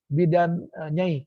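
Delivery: self-introduction demo. Shown as a demonstration.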